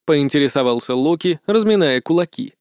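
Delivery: usual speaking voice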